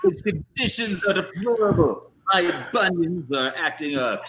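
indignant prisoner's complaint. Acted. Player acts complaining prisoner.

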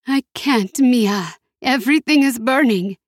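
put-on high, panicked older woman; frightened, near breaking; frightened mother. Mother trapped in fire.

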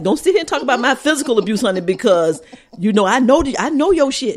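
fast, sassy clapback; sassy comeback. Retold or imitated. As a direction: snap back with sass. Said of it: "I was like".

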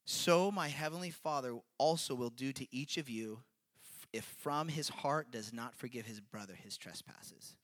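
weighty, deliberate reading with pauses; solemn word of God, opening firm and settling down; grave scripture reading. Real, not acted. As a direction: let each phrase land, slowing at the end. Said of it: "with the gravity of the word of God".

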